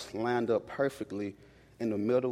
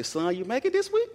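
high, caring mom on the phone; mom's voice; 11 semitones higher than usual. Retold or imitated. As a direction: ask it like a mother checking in.

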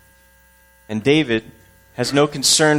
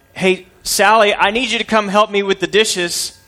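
grandma calling; 5 semitones higher than usual. Acted. Grandmother calls out in story.

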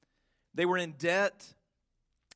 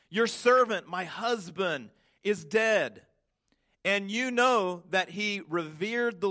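pleading widow; slower than usual. Acted. Preacher voices widow's plea to Elisha.

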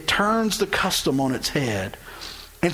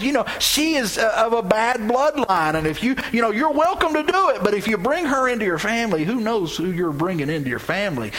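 sly persuasive needling; 5 semitones higher than usual. Acted. Boaz talks cousin out of it.

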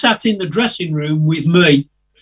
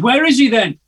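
put-on American accent; 7 semitones higher, 4 dB louder than usual. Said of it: "That was my American accent".

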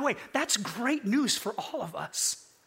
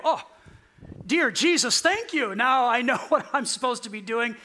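sarcastic, higher mock thanks to Jesus; mock gratitude; 4 semitones higher than usual. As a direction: ham up a fake grateful prayer. Mock grateful prayer, sarcastic.

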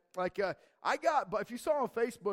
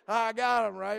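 triumphant shout; 4 semitones higher, 8 dB louder, slower than usual. Retold or imitated. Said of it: "I was like".

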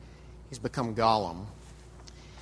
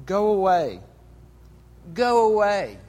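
raised, louder cry to be left alone; pleading banishment; 5 semitones higher, 6 dB louder, slower than usual. Acted. Creature driving away his darker self, loud desperate demand. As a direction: drive the other voice off, higher and louder.

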